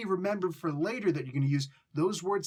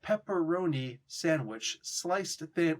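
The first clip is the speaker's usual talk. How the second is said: stilted, over-careful deli order; mock-formal, measured customer; stiff proper English; slower than usual. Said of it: "you're not doing colloquial".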